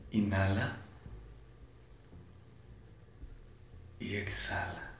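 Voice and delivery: calm breathing guide with long pauses; measured relaxation instructions, unhurried; guided meditation. Acted. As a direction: lead them through each breath, leaving space between phrases.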